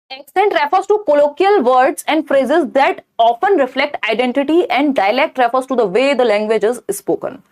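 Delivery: slow, deliberate reading of the question; reading question aloud. Acted. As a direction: read it out slowly for the class. Reads answer option. (प्रश्न को धीरे-धीरे पढ़कर सुनाना)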